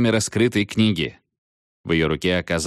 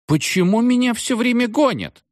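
put-on whiny, much higher girlish voice, drawn out; capricious drawl; 3 dB louder than usual. A narrator's reading. The witch girl whining at the captain, capricious drawl. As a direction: pout and whine it like a spoiled girl. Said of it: "капризно протянула девушка".

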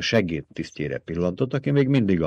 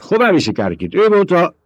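rising, louder cry cut off mid-word; outcry; 12 semitones higher, 5 dB louder than usual. A narrator's reading. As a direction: shout the question in anger. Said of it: "Hevet egyik embere fölkiáltott". (felháborodott felkiáltás)

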